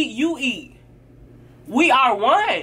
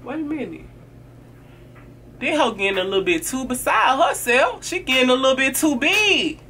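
suspicious jealousy; 3 semitones higher than usual. Retold or imitated. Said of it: "So she looking down like".

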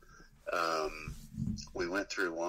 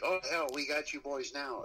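put-on higher, gloating upstate New York redneck accent; hammed-up upstate New York redneck cop taunting the band; mock upstate New York redneck cop; 10 semitones higher than usual. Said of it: "whatever the fuck it sounds like when they say it".

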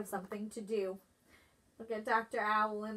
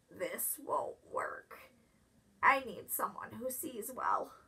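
softer, unvoiced hoarse groundhog; sick whisper; 6 dB quieter than usual. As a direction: whisper it, too sick to speak up.

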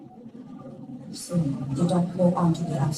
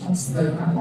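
guided meditation; much faster than usual. Acted. Translator guides loving kindness.

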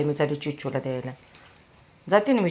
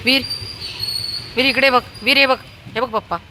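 high, loud bid for attention; calling out; 10 semitones higher, 8 dB louder, faster than usual. Real, not acted. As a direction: get him to look at the camera. Calling child to look at camera.

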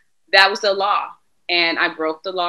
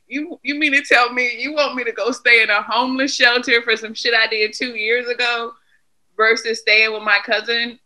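retold outrage; 6 semitones higher, 6 dB louder than usual. Retold outrage at probation officer.

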